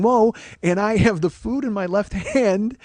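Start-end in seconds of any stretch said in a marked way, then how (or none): 0.0-0.3 high, loud shout; short raised-voice retold yell. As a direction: yell it out sharply. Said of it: "I start yelling".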